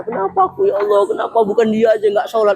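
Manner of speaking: high, whining protest to God; whiny complaint. Retold or imitated. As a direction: whine like a spoiled believer. Complaining worshipper quoted. (keluhan merengek bernada tinggi)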